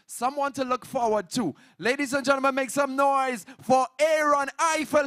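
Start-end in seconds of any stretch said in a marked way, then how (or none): 1.8-5.1 hype announcer. Real, not acted. Host introducing next artist.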